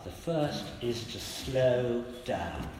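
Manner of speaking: slowed right down, each word weighed; slow and deliberate. Shown as a demonstration. Preacher repeating his first point, slow and deliberate. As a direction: let the point land slowly. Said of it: "three things there, they're all up".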